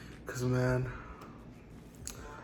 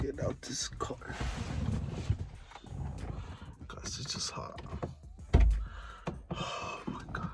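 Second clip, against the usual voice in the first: whispering; 7 dB quieter than usual. Real, not acted. Exhausted whisper in the heat.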